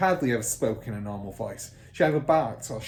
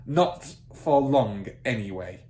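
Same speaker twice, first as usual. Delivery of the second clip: barked; 6 dB louder than usual. Acted. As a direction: bark it, grinning. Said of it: "Miss Trunchbull barked".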